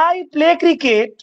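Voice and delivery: each word drawn out slowly; slow demo. Shown as a demonstration. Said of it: "কিন্তু". (খুব ধীরে, শব্দ টেনে টেনে)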